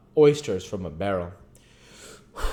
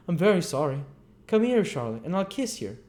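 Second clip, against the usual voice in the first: higher, lazy flirting youth; higher tipsy apprentice inviting a kiss; tipsy Noah; 9 semitones higher than usual. Acted. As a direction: offer the kiss drunkenly.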